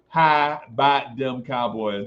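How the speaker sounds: put-on lightly done Texas accent, a bit slow; a hint of a Texan drawl; mock Texas accent. Streamer repeating the Texan phrase in a light Texas accent. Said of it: "that's how they say it in Texas".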